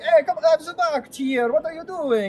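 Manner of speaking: high, agitated little gnome voice; high-pitched gnome road rage; yelling gnome. Acted. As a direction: squawk it like a bickering gnome cabbie. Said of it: "These gnomes are all yelling at each other".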